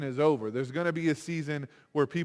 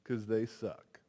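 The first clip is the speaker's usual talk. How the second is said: puffed up with pride; 3 semitones higher, 4 dB louder than usual. Retold or imitated. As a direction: gloat like you're better than them. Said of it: "puff yourself up with pride and go".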